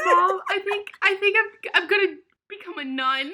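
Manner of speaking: high tearful confession; hammed-up weepy announcement to mom; mock crying. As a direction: blubber it comically, half laughing. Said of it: "I was hysterically crying".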